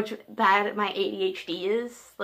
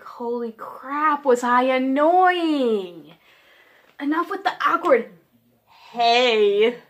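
future self voice; 3 semitones higher, 4 dB louder, much slower than usual. Retold or imitated. Future adult self scolding.

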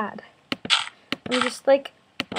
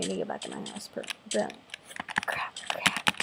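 muttering; 11 dB quieter than usual. Real, not acted. Muttering at game failure.

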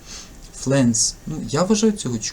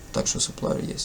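whisper; 8 dB quieter than usual. Real, not acted. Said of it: "whispered aside".

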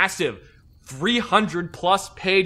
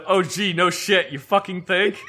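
sarcastic retort; 3 semitones higher, slower than usual. Retold or imitated. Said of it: "And I said".

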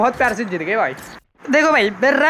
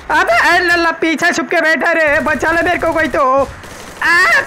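higher, urgent plea to a teammate; panicked call for help; 3 semitones higher, slower than usual. Real, not acted. Downed player begging a teammate to save him, panicked call. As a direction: cry out for rescue.

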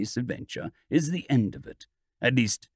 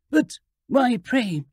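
frantic scream; 9 semitones higher, slower than usual. A narrator's reading. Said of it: "screamed the girl, distracted, frantic".

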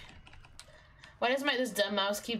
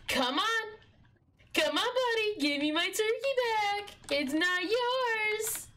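pet talk; 11 semitones higher than usual. Real, not acted. Coaxing his dog to give back the turkey, high pet voice.

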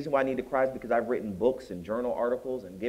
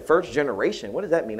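slightly higher, puzzled question on FIRST GENERATION; puzzled query; 3 semitones higher than usual. Retold or imitated. Godsister queries an unfamiliar term, mildly puzzled. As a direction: ask what "First generation" means, pitched up, mildly baffled.

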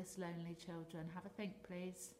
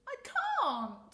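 loud high protest; 12 dB louder than usual. Acted. Rainbow fish protests.

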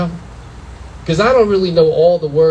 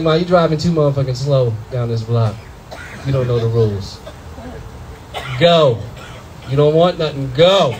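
urgent son; 6 semitones lower than usual. Retold or imitated. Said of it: "I was like".

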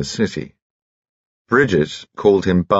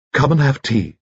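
put-on chirpy piping little old gentleman, much higher; high-pitched Bunchy; 8 semitones higher than usual. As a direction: pipe cheerfully like a tiny jolly gent.

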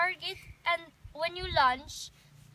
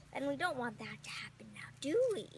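whisper; 2 semitones lower, 5 dB quieter than usual. Pretend. Warning the class.

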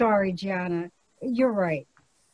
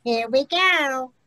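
imitating "Here we go" with a thick New York accent; mocking New York accent. Shown as a demonstration. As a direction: mimic his New York "go". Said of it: "making fun of my New York accent".

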